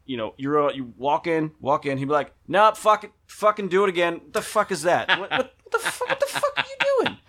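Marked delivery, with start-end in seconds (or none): 2.5-4.1 louder, higher barking coach; acting coach yelling at a student; imitating harsh coach. 4.1-7.2 mock coach outburst. Coach mocking a student.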